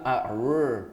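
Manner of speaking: slow, drawn-out R; requested R sound. Shown as a demonstration. Actor showing the sound he had to do, drawn-out R. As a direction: stretch out the "R" as a demonstration. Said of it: "I had to do an".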